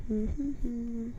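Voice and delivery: breathing heavily into the mic; heavy nose breathing. Real, not acted. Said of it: "A bit of Darth Vader going on".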